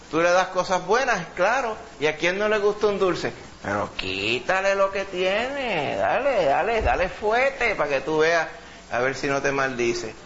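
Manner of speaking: a lightly voiced, slowed tempter; Satan egging God on. Preacher voicing Satan taunting God, lightly mocking tempter. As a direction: coax it like the devil daring God, dragging the words. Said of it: "Mira cómo es el demonio".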